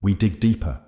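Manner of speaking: steady, measured reply. A narrator's reading. Jake answering frightened Clara, steady voice. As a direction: answer evenly, in an unruffled voice. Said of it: "Jake replied, his voice steady".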